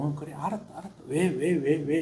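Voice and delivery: a hint of a parent hushing a child; softly calm a crying little one; soothing parent. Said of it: "안아주고 달래주고".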